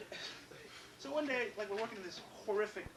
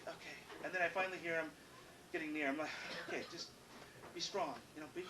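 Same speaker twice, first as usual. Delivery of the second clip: much softer, nervous pep talk to himself; scared self-talk; 4 semitones lower, 8 dB quieter than usual. Retold or imitated. Boy bracing himself as his angry dad approaches, soft and scared. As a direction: whisper courage to yourself before dad arrives.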